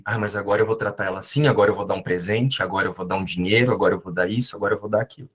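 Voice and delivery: inner voice scheming. Retold or imitated. To himself, planning to make it up to her: low, soft inner voice. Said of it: "eu ficava na minha mente assim".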